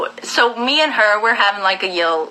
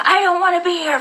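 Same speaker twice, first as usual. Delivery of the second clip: higher, mildly raised mock of her declaration; retold outburst; 9 semitones higher, faster than usual. Girlfriend finally blurting that she wants to leave. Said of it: "Finally, she's like".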